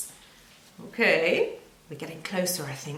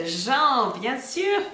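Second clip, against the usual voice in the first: excited reveal; 4 semitones higher, 4 dB louder, much slower than usual. Acted. Puppet appears.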